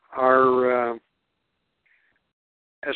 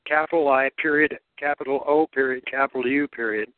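dictating. Shown as a demonstration. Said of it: "writing "I O U".

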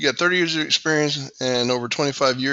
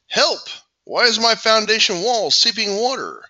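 upbeat announcer voice reading the intro; podcast intro read. Acted. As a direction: sell the show open like a radio host.

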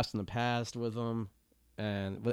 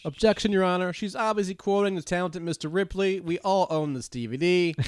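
higher-pitched pretend lawyer; mock courtroom objection; 6 semitones higher than usual. Lawyer objecting to the judge over a movie quote, mock protest. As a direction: object as a put-on attorney, pitched up.

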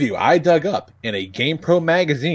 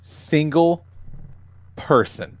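clickbait video narrator; 3 semitones higher, slower than usual. Pretend.

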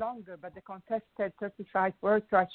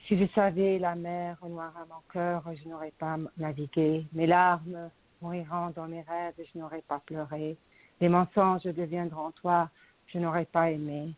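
poem reading in French. Acted.

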